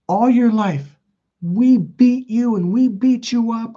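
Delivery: high, slow, emphatic mother imitation; imitated cruel mom. Mom telling son of lifelong abuse, cruel and deliberate. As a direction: drag it out, pitched well up.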